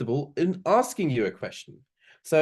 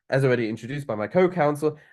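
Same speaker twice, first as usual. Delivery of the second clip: As already introduced by my co-counsel rattled off fast; quick throwaway; 2 semitones higher, 3 dB louder, faster than usual. Shown as a demonstration. Teacher replaying the unimportant opening phrase, said fast. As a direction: run through As already introduced by my co-counsel quickly, it doesn't matter. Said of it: "Just going very, um, quickly".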